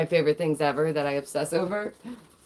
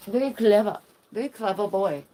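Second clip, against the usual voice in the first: cutesy praise; 5 semitones higher, 3 dB louder than usual. Acted.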